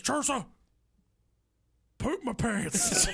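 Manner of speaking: high, slow mock strained wail; straining husband's confession. Husband confessing to wife through door, mock strained high wail. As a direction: drag out a pitiful high holler.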